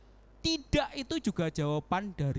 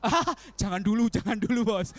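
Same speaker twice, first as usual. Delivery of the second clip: laughing plea; 3 semitones higher, 5 dB louder than usual. Retold or imitated. Voicing Pipin's reaction laughing.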